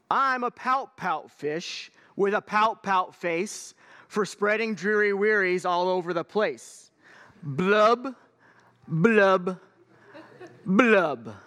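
slow, mopey sing-song fish refrain; glum pout fish. Acted. Gloomy fish chanting his refrain to his friends, slow and mopey. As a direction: drag out the gloomy fish's chant. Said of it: "there's a rhythm to this".

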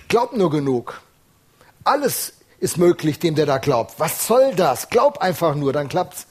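lightly voiced dismissive Jesus caricature; mock glib preacher. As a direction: brush the doubter off with a cheap slogan. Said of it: "Man könnte fast denken".

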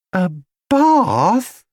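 put-on disbelieving girl; incredulous. A narrator's reading. Judy to Paddington, incredulous. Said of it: "repeated Judy slowly".

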